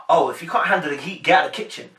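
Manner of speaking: level, matter-of-fact put-down; plain serious brush-off; haughty dismissal. Retold or imitated. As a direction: say it straight, as if you mean it. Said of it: "she didn't say it in a way of".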